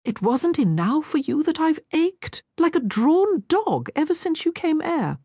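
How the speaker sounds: Cockney twang breaking through a gentleman's speech. A narrator's reading. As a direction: let the Cockney slip out through desire. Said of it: "his voice was tainted with a Cockney twang".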